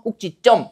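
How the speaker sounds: 꼭지점 said as kkok-jjit-jjeom, tense jj sounds; demonstrated pronunciation. Shown as a demonstration. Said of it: "찌로 발음되는 거죠".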